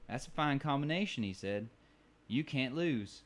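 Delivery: lightly voiced bartender accent on "That's a fine combination"; a pleased old bartender, mildly put on. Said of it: "You hear that accent".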